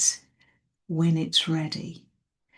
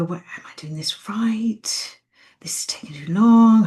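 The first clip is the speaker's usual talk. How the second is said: anxious inner voice; 3 semitones higher, 4 dB louder than usual. Retold or imitated. Imitating anxious meditator thoughts.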